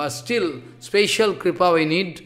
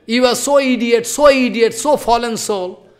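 scolding; 3 semitones higher than usual. Real, not acted. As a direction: berate the listener as an idiot. Preacher scolding foolish commentators.

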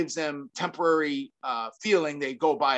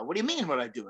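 lightly imitated foreign accent; George Gurgel; 2 semitones lower, 4 dB quieter, much faster than usual. Friend questioning the speaker's question, lightly imitated accent. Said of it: "do my best George, uh, accent".

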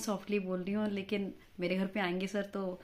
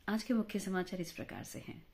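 measured formal newsreader delivery; quiet, formal headline read; news reading; 2 semitones lower, 6 dB quieter than usual. Shown as a demonstration. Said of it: "news reading करके बताऊँ?".

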